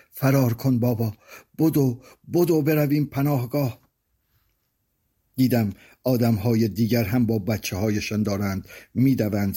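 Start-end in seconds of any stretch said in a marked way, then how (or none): 0.1-3.8 mildly acted child's alarm, pitch climbing; panicked cry. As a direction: urge father to run, understated shout. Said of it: "ناگهان فریاد زد".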